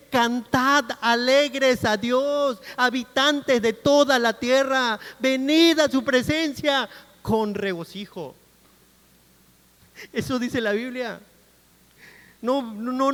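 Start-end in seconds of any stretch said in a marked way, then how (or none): 0.1-8.3 slow, drawn-out psalm reading; proclaimed scripture. Real, not acted. Preacher proclaims the psalm calling all to joy, slow declamation. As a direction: declaim the verse with long stretched words.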